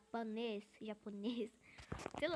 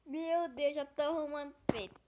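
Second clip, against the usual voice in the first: gasp; 8 dB louder than usual. Real, not acted. Gasps at own provocation.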